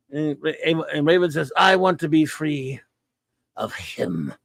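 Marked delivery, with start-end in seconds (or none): 1.6-4.3 mock Avon snarl of hatred. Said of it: "That growl, that snarl".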